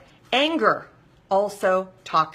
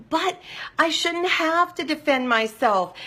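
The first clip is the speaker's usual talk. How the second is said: much higher, slow self-pitying whine; whiny victim voice; 8 semitones higher than usual. Retold or imitated. Voicing her old victim self.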